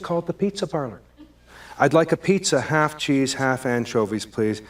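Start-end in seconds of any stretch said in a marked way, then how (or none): 1.8-4.6 clipped, grudging order; curt tone. Acted. Caller ordering pizza from an annoying clerk, curt. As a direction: say it like you're fed up. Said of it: "And now he's mad at me".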